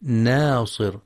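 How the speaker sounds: ناصر with a thin, light n; ناصر, light naa, heavy sad after it; light noon. Shown as a demonstration. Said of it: "وكذلك ترقيق النون".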